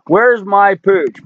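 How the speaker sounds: drawn-out, sing-song call to the dog; doggy talk. Real, not acted. Owner calling his dog to the camera, sing-song coaxing.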